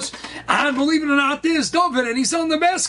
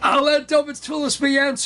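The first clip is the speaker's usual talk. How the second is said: tearful pleading; 3 semitones higher than usual. Acted. Two boys praying hard at recess, tearful pleading. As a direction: imitate a boy begging fervently in prayer. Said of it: "and they're crying, they're schwitzing".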